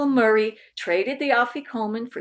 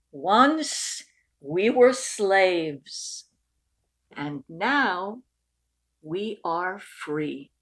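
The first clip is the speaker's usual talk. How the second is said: slow and hushed, fading to a near whisper; solemn reading; 4 semitones lower, 3 dB quieter, much slower than usual. Acted. Family reading the Passover story with reverence. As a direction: read it gravely, letting it die away.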